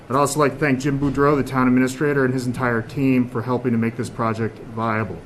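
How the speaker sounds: muffled through a mask; talking behind a face mask. Real, not acted. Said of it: "it's kinda hard to speak through a mask".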